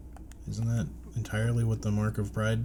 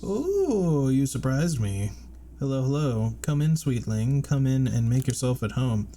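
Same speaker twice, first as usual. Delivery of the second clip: higher, louder fawning shopkeeper voice; Salubra voice; 5 semitones higher, 5 dB louder than usual. Acted. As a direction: play an eager old charm seller.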